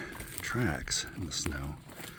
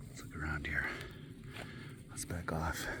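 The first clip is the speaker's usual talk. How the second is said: whispering; 7 dB quieter than usual. Acted. Sneaking near the nest.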